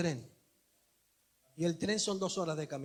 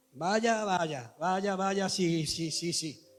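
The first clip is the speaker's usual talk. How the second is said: loud sarcastic tut-tutting at the father; loud mock reproach of a careless dad; mocking scold; 7 dB louder, much slower than usual. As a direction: heap scorn on him, loud and drawn out. Mocking the sleeping father aloud.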